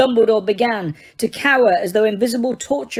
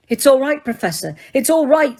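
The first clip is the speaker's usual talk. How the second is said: loud reassurance; 4 semitones higher than usual. Acted. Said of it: "said Harry loudly".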